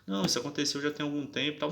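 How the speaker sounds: quick, unruffled self-quote; calm retelling. Retold or imitated. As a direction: state it calmly and matter-of-factly. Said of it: "eu tava falando calmamente com ela".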